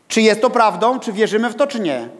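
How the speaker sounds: usual speaking voice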